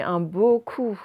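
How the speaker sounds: "beau coup" drawn out as two words; split into two words. Shown as a demonstration. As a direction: slowly stretch "beau", then land on "coup". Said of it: "avant, c'était en deux mots". (« beau coup » détaché en deux mots, lentement)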